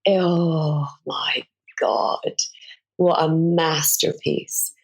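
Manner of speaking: breathless hushed awe; awed whisper. Real, not acted. Awed praise of a novel.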